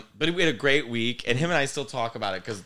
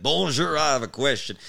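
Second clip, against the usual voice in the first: clumsy American; 2 semitones higher, 5 dB louder than usual. Retold or imitated. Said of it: "I didn't want to be the American and be like".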